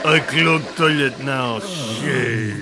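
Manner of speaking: slow put-on Russian, broken English; hammed-up Russian accent; mock Russian accent. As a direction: play a Russian villain, heavy and deliberate. Playing the Russian villain.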